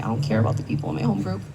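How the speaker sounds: defiant. Retold or imitated. Defiant reply to sponsor.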